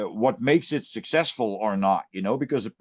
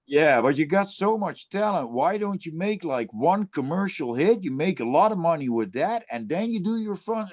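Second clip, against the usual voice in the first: higher, lilting mock advice; put-on coaxing, pitched up; imitating pushy relatives; 5 semitones higher than usual. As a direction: mimic a relative's well-meant nagging. Imitates relatives giving career advice.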